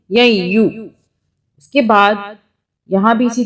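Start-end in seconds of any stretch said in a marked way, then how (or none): 0.1-0.6 ی یو with a faint nasal hum joining into یو; ی یو, not ین, with a slight nasal glide; light nasal ghunna. Shown as a demonstration. Teacher reads ی یو with light nun ghunna. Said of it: "ہلکی سی نون غنہ کی sound آ جائے گی".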